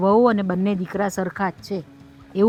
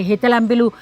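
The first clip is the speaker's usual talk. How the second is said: animated imitation; 5 dB louder than usual. Elder explains, chanting bol.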